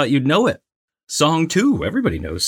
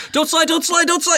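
much higher, begging chant; pleading inner voice. Retold or imitated. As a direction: beg the screen not to slip. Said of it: "I was like".

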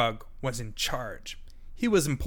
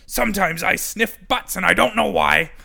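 higher, louder dog; the good dog joins in, higher and louder; 6 semitones higher, 8 dB louder than usual. A narrator's reading. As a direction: bark it out cheerfully. Dog confesses.

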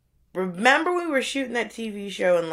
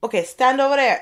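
brisk order, a touch higher; Jamaican lady at the register; 6 semitones higher, 4 dB louder than usual. Retold or imitated. Restaurant lady sends the customer aside, mildly curt. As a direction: wave him aside, a hint of impatience. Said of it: "And she's like".

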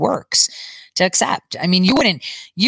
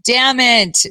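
"Damn it." again, louder and higher; louder, exasperated damn it; frustrated curse; 5 semitones higher, 4 dB louder than usual. Retold or imitated. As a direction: punch "Damn it." out with retold frustration. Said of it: "And I was just like".

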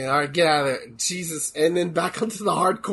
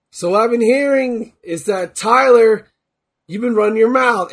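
lightly voiced Stone Cold promo; a hint of a gruff wrestler promo; 4 dB louder than usual. Shown as a demonstration. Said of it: "I'm talking like Stone Cold".

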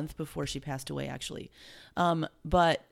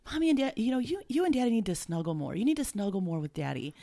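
put-on child's voice; 5 semitones higher, faster than usual. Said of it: "out of the blue".

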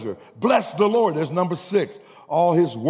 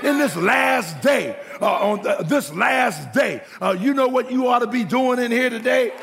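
full-force preaching climax; 7 semitones higher than usual. Real, not acted. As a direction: whoop it up, driving the church toward praise. Sermon climbs to full preaching.

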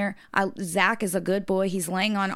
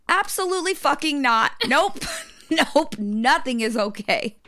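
frantic refusal; 7 semitones higher, 4 dB louder than usual. Retold or imitated. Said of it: "I'm like".

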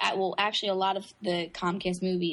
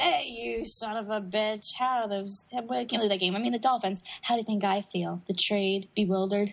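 movie character voice. Retold or imitated. Imitating movie character lines.

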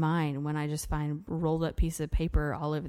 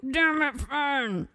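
discreet curse; 8 semitones higher, much slower than usual. Retold or imitated. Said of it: "discreetly as I could".

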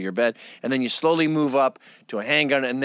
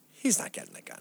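deadpan cop; 8 dB quieter than usual. Retold or imitated. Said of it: "he goes".

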